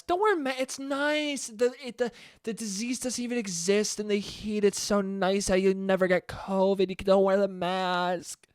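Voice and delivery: high, lightly voiced mocking bro; mock dumb friend. Mocking a friend who says it's nice out. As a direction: mimic the careless friend urging no masks.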